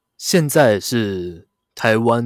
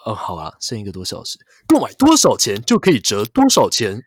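ad read; 5 dB louder than usual. Acted. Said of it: "你现在在帮Momo业配吗？".

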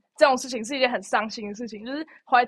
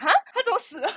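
surprised; 9 semitones higher, 5 dB louder, faster than usual. Retold or imitated. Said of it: "那一刻我就想".

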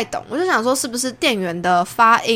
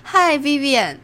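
模仿泰国同学; 6 semitones higher, slower than usual. Retold or imitated. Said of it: "他就会跟我说".

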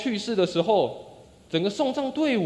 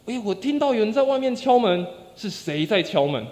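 a touch raised, questioning; mildly raised retold call; slightly louder voice. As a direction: call out mildly to whoever knocks. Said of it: "用比第一次还大一点的声音回答".

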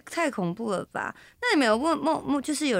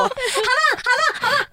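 loud sleep-talk imitation; 5 dB louder than usual. 学室友梦里大喊好棒. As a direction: chant it like a sleeper cheering with raised arms. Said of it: "我很大声哦，是像刚刚那样子哦".

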